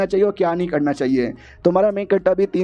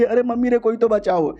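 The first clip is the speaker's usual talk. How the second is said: higher, hammed-up damsel squeal; mock cry for help; 6 semitones higher than usual. Helpless girl squealing for rescue, higher and hammed-up. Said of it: "चिल्लाने लग जाऊंगी".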